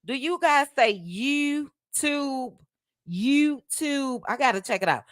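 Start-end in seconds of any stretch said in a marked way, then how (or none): 0.9-2.5 put-on drawn-out, high DMV-accent vowels; imitated DMV accent. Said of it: "I love you all's accent". 3.1-4.2 put-on high, stretched DMV-accent YouTube; imitated DMV accent. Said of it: "I love you all's accent".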